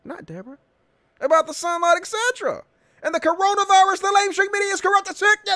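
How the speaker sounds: high, fast mock Trump voice reading his post; mocking Trump tweet. Host mocking the president's tweet in a high put-on voice. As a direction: sneer it out as a parody of the president. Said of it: "So he's like".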